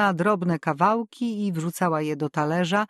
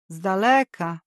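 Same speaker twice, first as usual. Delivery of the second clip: curious echo. A narrator's reading. Landlady repeating the tenant's answer, curious echo. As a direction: echo "z daleka" back with nosy interest.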